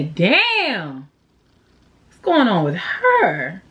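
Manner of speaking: mildly voiced admiring gossip, laughing at the end; an onlooker stunned by how good she looks; impressed onlooker. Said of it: "They're gonna say".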